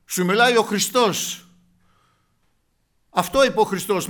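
loud, high, fervent sermon voice; preaching at full force. Acted. Preacher telling the congregation of the rich man, fervent loud preaching. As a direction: preach it out to the whole church.

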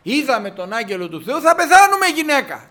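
acted panic, loud and climbing high; alarmed husband. Samson's father tells his wife of the angel, alarmed. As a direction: cry out in dread to your wife. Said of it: "είπε ο πατέρας του Σαμσόν".

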